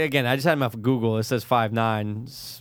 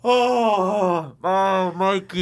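mock lament; 6 semitones higher, much slower than usual. Real, not acted. Lament after shout.

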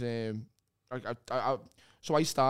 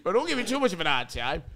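boss imitation; 3 semitones higher, 4 dB louder than usual. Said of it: "that's how he said it".

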